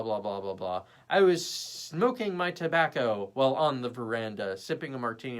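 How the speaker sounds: mock long-winded storyteller, lightly acted; trying to sound smart. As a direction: ramble on as someone labouring to seem clever. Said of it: "trying to make something sound really smart".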